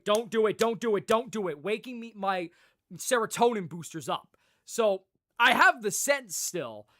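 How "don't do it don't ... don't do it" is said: inner warning voice. Retold or imitated. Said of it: "The frontal lobe is going".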